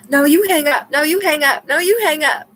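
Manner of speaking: playful lovey-dovey phone goodbye; giggly late night call. Pretend. Playful lovers' hang-up routine.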